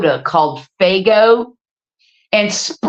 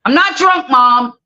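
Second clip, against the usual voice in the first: imitating daughter; 4 semitones higher than usual. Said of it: "she's like".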